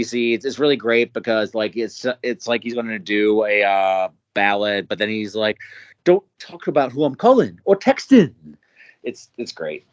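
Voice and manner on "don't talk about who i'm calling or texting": high, swooping rapper voice; Bruiser Wolf impression. Quoting a rapper's lyric to podcast co-hosts, high-voiced impression. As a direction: lift it high and lilt it like a playful rapper. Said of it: "another Bruiser Wolf impression".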